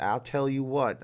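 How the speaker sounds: put-on mild, drawn-out Texas accent; lightly voiced Texas catchphrase, slow. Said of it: "if that's a Texas type accent".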